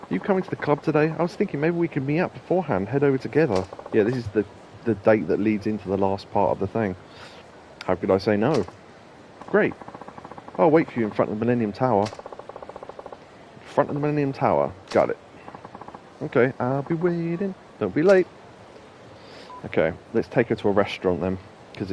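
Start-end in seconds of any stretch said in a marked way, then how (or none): 0.1-3.6 lightly voiced woman, just higher; reading the girl's lines in a higher register; woman's voice. A hint of a woman asking him to meet up. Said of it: "started doing the woman's voice". 16.2-18.3 higher, teasing woman's voice. Acted. The date girl telling him not to be late, higher. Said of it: "your woman voice is just you in a higher register".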